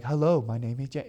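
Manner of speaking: lightly imitated robotic phone greeting; mock soundboard greeting. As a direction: imitate a friend's odd voicemail accent. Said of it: "So basically, he sounds like".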